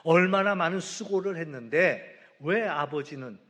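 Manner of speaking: indignant protest building to a loud grievance; retold defiance. Elder son protesting to his father about the goat, loud resentful talking back. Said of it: "막 아버지한테 막 대들고".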